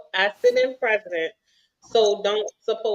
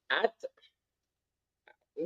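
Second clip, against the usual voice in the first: false start; 5 semitones lower, 13 dB quieter than usual. Real, not acted. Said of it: "I'll read it how it say".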